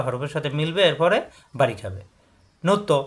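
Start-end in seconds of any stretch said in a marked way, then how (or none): 2.6-3.0 নো তো with a bounced ত; qalqalah bounce. Shown as a demonstration. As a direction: push off the ত in নো তো.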